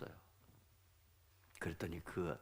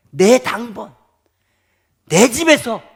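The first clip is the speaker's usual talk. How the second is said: high, loud proclamation; forceful, staking a claim; emphatic possessive; 11 semitones higher, 18 dB louder, slower than usual. Acted. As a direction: punch it out as the general's claim. General claims his own people.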